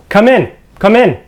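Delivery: high, loud call from inside; yelled invitation. Acted. Game master as voice inside inviting visitors in, yelled. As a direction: holler it out as an unseen voice. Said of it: "yell out".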